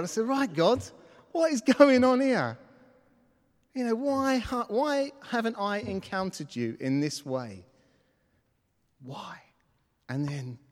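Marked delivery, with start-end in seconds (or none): 0.3-2.6 high, loud challenge to God; ranting. Retold or imitated. Discouraged man back in his room confronting God, ranting. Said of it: "had a little rant with God". 3.7-9.4 pleading rant, easing off towards the end. Retold or imitated. Discouraged man asks God why, a rant winding down. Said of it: "had a little rant with God".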